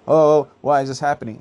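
alarmed, confused asking; panicked. Pretend. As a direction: voice a panicking crowd. Panicked people asking why.

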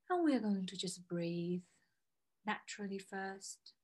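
soft spa whisper. Acted. Guided breathing, very soft.

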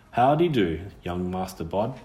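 a lightly voiced country girl, curious; old rustic girl, surprised and teasing; lightly voiced ghost girl, brisk and wary. Witch girl greets Bod.

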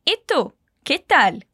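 slow, clear E tu, que tal?; slow model question. Shown as a demonstration. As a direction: ask it slowly for the learner. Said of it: "pra perguntar".

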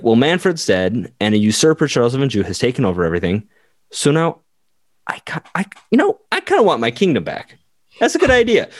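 put-on young heir plotting to reclaim his kingdom, voice climbing high; teen Conradian voice. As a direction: play a scheming teenage heir, pitch rising.

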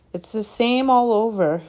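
high, loud, oily sympathy. A narrator's reading. Shopkeeper agrees with customer, high and oily. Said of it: "in his oily voice".

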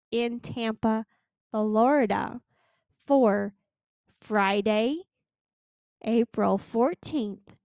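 slow, spaced out with pauses between phrases; deliberately slow. Real, not acted. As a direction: spell it out slowly so they understand. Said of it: "I'm gonna say this slow".

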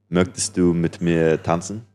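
slow careful German; German phrase. Shown as a demonstration. Asked to chat up a girl, slow careful German. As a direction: try out the German line, slowly. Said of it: "I'll probably be like".

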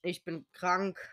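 sick, congested voice; talking with a blocked nose; stuffy nose. Real, not acted. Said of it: "man hört's vielleicht ein bisschen".

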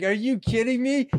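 high, loud disbelief; retold incredulous protest. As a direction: act out protesting to the organizer, pitch way up. Retelling protest to the lady.

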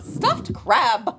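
French candelabra impression; lightly voiced Lumiere. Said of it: "doing the voice of the candelabra".

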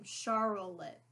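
imitating her sounded-out "Charlotte"; "Charlotte" said as if spelling it by ear; sounded-out name. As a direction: mimic a friend sounding out "Charlotte". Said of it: "That's how she sounds out my name".

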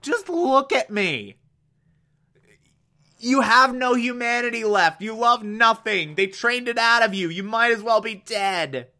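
lightly acted despairing prisoner; desperate pleading. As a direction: plead with a man who won't look at you. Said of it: "he just loses it".

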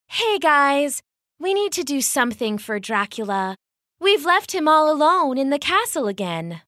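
a hint of a fussy mummy. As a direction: plead gently with the friends. Mummy character voice.

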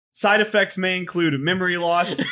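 rapid legal disclaimer voice; disclaimer read. Pretend. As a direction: read it like ad small print. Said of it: "I have to read this disclaimer perfectly word for word".

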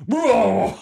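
sudden high cry; panicked high yelp. Acted. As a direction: shriek it in panic.

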